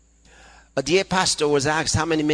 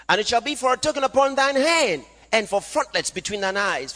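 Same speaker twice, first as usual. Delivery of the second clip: raised-pitch declaimed Bible verse; scripture reading; 7 semitones higher than usual. Acted. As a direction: proclaim the verse to the congregation. Reads scripture aloud to congregation.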